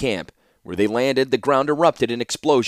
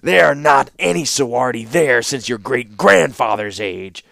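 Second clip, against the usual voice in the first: louder, heated warlord; hot rejoinder; 5 dB louder than usual. A narrator's reading. Warlord denying the young ruler's ancestral claim, hotly. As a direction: retort hotly, brooking no argument. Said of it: "rejoined the warlord hotly".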